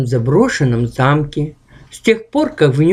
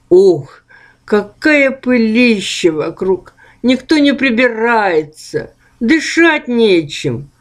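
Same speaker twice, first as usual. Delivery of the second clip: grumbling ghost; 5 semitones higher than usual. Acted. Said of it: "промолвило привидение Ух".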